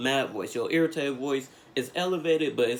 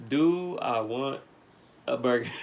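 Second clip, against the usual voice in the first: incredulous repeat. Retold or imitated. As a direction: drag it out in disbelief. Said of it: "After me telling you all this stuff".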